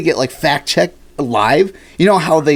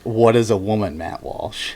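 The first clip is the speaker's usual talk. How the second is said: deadpan Matt Walsh; 2 semitones lower than usual. Retold or imitated. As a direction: deliver it deadpan, dropping away on the name. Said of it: "The deadpan fucking humor he has".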